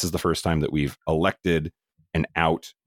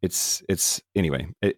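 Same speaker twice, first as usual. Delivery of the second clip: ordinary delivery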